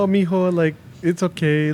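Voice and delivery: a hint of a mother brushing off her son; mom's voice. Son quotes his mother calming him in the dream, lightly voiced mom. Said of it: "she's like".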